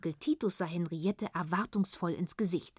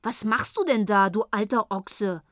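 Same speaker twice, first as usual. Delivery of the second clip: louder indignant scolding; mild indignant scolding, louder; 2 semitones higher, 5 dB louder than usual. Acted. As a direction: scold him in outrage. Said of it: "in entrüstetem Ton".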